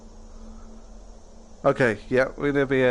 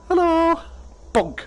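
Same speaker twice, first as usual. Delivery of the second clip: excited playful shout; slower than usual. Real, not acted. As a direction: call out like a silly game noise. Playfully calling out in game.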